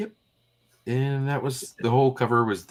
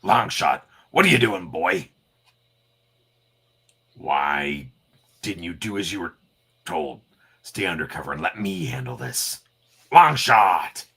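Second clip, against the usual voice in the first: louder, scolding yell; shouting; 6 dB louder than usual. Acted. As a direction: bark at the kid. Wolverine yells at Longshot.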